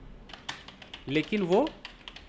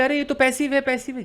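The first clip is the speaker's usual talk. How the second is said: lightly voiced objector, higher-pitched; mock objector; 5 semitones higher, 3 dB louder than usual. A student objects that this is passive, mock objection. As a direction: play someone butting in to object. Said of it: "अब कोई बोले".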